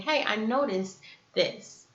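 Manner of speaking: slow, easy observation; neutral, non-blaming. Acted. The better way to address someone yelling, neutral. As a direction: offer it slowly, without blame. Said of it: "in a neutral way".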